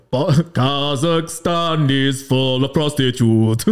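slow, laughing Borat voice; Borat impression. Friend mimicking the Borat anthem through laughter. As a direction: drag out the anthem line mockingly. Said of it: "it's like".

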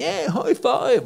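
slow, high, drawn-out American cheer; mock enthusiastic American crowd; imitating Americans. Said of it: "alle var sånn".

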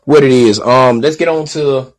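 distorted, clipping mic sound; fuzzy, overdriven audio; fuzz distortion. Real, not acted. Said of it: "sorry about the distortion".

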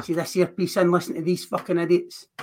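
fired-up wrestling trash talk; rally the crowd like a heel; wrestling promo. Acted. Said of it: "Cutting a promo".

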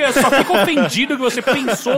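high, loud, laughing protest; laughing mock offense. Real, not acted. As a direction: play the outrage through laughter. Mock offense about sandals.

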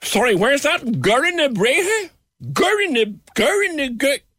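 high fussy posh voice fumbling a place name; posh outsider. Pretend. Pretend posh visitor asking a local directions, high and fussy. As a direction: play a lost posh visitor stumbling over the name. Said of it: "don't know how to pronounce names of places".

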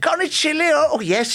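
high-pitched mock restaurant voices; hammed-up high question and reply; acted ordering exchange.

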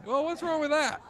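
high, giggling through the question; laughing. Retold or imitated. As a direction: laugh it out cheekily. Retold cheeky thought.

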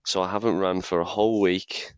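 hoarse sick voice; croaky voice. Real, not acted. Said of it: "as you can hear by my croaky voice".

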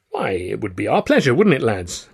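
a touch of hearty cheer; lightly jovial to the lads. Acted. Narrator puts on cheer for the butler and his pals, lightly jovial. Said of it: "I said jovially".

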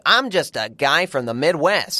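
imitated Midwestern American, unhurried; lightly mocked Midwest American accent. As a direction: play a slow, ordinary American guy. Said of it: "it's a decent American accent".

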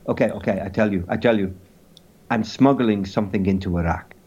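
subdued mock-French confession; caricature French accent. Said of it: "in a caricature French accent".

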